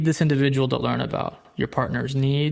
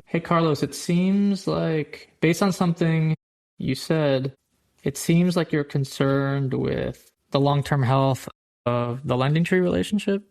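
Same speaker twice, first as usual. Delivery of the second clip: observation ending on a rising lift, like a question; upward inflection; 2 semitones higher than usual. Shown as a demonstration. Interviewer labeling the partner's concern, ending on a rise. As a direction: let relationship lift up so it lands as a question. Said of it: "that statement with upward inflection almost lands like a question".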